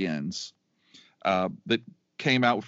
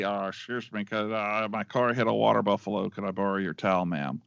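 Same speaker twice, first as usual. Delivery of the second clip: Fletch quote; 4 semitones lower than usual. Retold or imitated. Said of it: "the best line".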